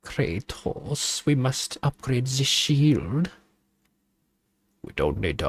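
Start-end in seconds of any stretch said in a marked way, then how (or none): 0.0-3.3 put-on German accent. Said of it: "Why are you speaking like this?".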